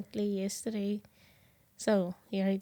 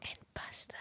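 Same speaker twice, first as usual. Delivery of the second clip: playing along in a hushed whisper; 14 dB quieter, faster than usual. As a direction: whisper a secret food order. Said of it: "And Jules whispers in my ear".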